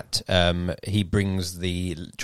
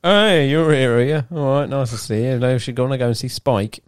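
bright, higher friendly greeting; upbeat Charlie voice; 4 semitones higher, 4 dB louder than usual. Retold or imitated. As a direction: play him cheerful and eager. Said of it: "but then Charlie says".

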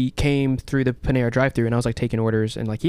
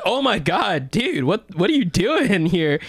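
much higher, fan's gushing disbelief; mock starstruck excitement; 8 semitones higher, slower than usual. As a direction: gush like a starstruck fan. Retelling excited fan reaction.

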